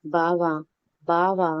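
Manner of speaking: sweetly drawn-out call of his name; cute coaxing call. Acted. Wife teasing husband to get his attention, cutely coaxing. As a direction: coax him playfully, like a pampered girl. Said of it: "ముద్దుగా పిలవటం".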